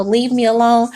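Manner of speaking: restrained, falsely nice brush-off; nice serial-killer politeness. Acted. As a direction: politely tell them off, with lightly veiled menace. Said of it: "in a nice, like, serial killer way".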